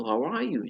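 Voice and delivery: "How are you" arched high on are, then falling; high intonation. Shown as a demonstration. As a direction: lift "are" clearly for learners. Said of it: "tingginya intonasi itu seperti itu".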